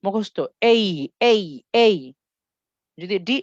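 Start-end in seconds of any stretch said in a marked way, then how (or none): 0.7-2.0 এই as a clear "ay" glide; memorised letter-name. Shown as a demonstration. Teacher drilling spelling pronunciation by heart, gliding এই. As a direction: drill এই in separate, even beats. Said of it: "এটার উচ্চারণটা হচ্ছে".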